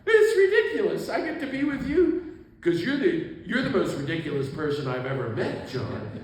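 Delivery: imitated laughing outburst, high and loud; Tutu. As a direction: tease through mock hilarity, starting high and settling. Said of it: "and he bursts out laughing".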